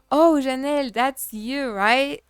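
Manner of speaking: a mock excited oh, that's you; imitated surprised greeting. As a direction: play the ex delighted to spot her. Imitating ex recognizing her.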